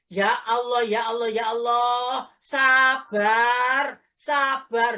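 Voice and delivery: loud exasperated cry of be patient; impatient sabar. Retold or imitated. Preacher mocks an impatient man loudly urging patience. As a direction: bark patience while losing it yourself. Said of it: "ngomong sabar loh, gak sabar".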